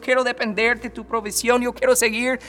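high, loud, pleading "yo quiero" repeated; fervent prayer. Acted. Believer praying to God for help, fervent. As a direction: pour out a passionate prayer to God.

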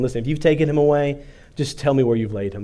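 hurried, mildly exasperated plea; lightly acted weary impatience, words rushed; numb exasperation. Mary to a man she takes for the gardener, numb exasperation. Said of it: "this kind of numb exasperation in her voice".

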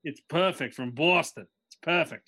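shaky attempt at Boston accent; put-on Boston accent. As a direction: repeat a dubious Boston accent on request. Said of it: "Do that one more time".

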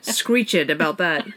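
"Screech it" as slow SCREECH-ED; mocking two-syllable screech-ed. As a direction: tease with "Screech it" said as screech-ed, slowly. Teasing with two-syllable version.

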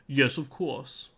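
slow British butler voice; stuck-up butler. Shown as a demonstration. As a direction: answer slowly, like a snooty British butler. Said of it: "stuck up butler is always my".

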